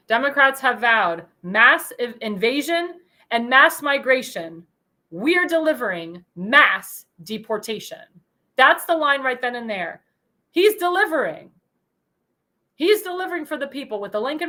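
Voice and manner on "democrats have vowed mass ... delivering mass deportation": slow quote reading. Retold or imitated. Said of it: "he said this quote at the rally".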